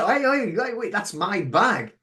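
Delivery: hey, wait, that's mine; indignant call out. Retold or imitated. To the checkout worker, calling her back indignantly.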